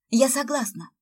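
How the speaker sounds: can barely contain her joy; eager exclaim. Acted. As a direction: jump at the offer. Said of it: "торопливо воскликнула Света".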